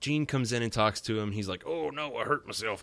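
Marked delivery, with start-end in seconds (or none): 1.6-2.8 slightly higher-pitched cartoon hero voice. Recapping an X-Men cartoon episode, doing Wolverine's line to Jean in Wolverine voice. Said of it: "That's what Wolverine sounds like".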